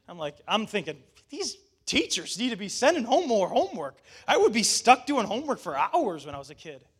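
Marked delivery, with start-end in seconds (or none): 1.3-6.9 higher, swooping mock outrage; half-joking indignation, punched louder; mock indignant rant. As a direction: rant like an exasperated parent. Mock rant over light homework.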